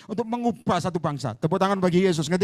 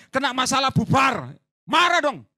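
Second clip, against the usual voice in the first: louder and higher, punching each word out; preaching shout; 3 semitones higher, 5 dB louder, slower than usual. Real, not acted. Preacher urging the church to get angry, a loud shout. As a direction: burst out to rouse them.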